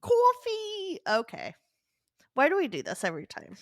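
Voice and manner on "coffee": Jersey devil scream. Pretend. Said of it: "screamed in a Jersey accent?".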